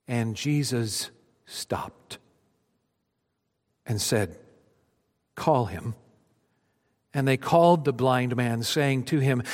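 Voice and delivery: storytelling read from the pulpit, rising then hushed; dramatic scripture reading. Acted. Pastor reads Mark to his congregation, dramatic then hushed. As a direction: read the Gospel like a story, letting it settle at the end.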